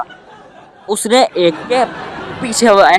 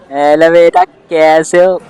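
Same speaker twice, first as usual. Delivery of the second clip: louder, sweet fake concern; nosy uncle greeting; 3 semitones lower, 5 dB louder, slower than usual. Uncle on the phone greeting the injured boy, mock concern.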